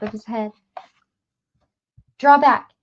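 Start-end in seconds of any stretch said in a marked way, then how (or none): 2.2-2.7 loud, high, breathless warning; panting. A narrator's reading. Gasher cornered with a knife, panting loudly. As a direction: gasp it out, cornered. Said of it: "he panted".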